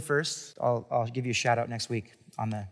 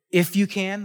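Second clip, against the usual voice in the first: sarcastic reading; 5 semitones higher than usual. Retold or imitated. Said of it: "maybe someone might read it as".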